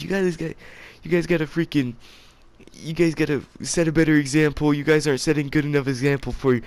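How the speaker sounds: high-pitched imitation of a crying teacher; mock tearful rambling. Crying teacher rambles at class about setting examples, mock tearful. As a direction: scold in a high, put-on weepy voice. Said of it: "kept crying and rambling".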